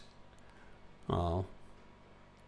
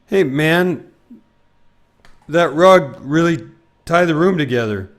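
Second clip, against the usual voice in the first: louder, higher laid-back dude voice; Jeff Bridges impression; 5 semitones higher, 8 dB louder than usual. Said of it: "this is not a good impression".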